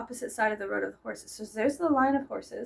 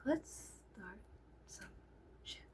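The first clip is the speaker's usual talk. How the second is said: quiet mischievous suggestion; 19 dB quieter than usual. Retold or imitated. Confiding mischief to husband.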